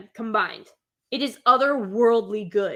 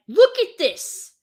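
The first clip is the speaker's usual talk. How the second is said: high, slow, gushing look at this; thrilled look; 8 semitones higher, 6 dB louder, slower than usual. Real, not acted. Fan gushing to viewers about the show, drawn out and high. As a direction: swoon over the screen.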